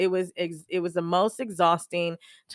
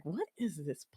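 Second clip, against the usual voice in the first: disgusted; 10 dB quieter than usual. Retold or imitated. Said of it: "disgusted immediately".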